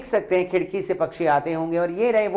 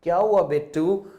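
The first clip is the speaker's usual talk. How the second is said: loving question. Acted. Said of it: "प्यार से सिर पे हाथ रख के".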